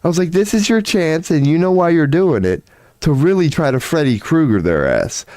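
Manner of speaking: deutlich höher, aufgekratzt sich selbst anstacheln; aufgedrehte Selbstanfeuerung. Retold or imitated. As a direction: wie ein innerer Einpeitscher, hoch und hell. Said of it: "I'm like".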